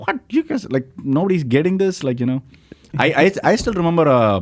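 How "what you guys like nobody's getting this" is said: high-pitched, incredulous mock reaction; baffled disbelief. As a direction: act out being totally baffled. Retelling his baffled reaction onstage.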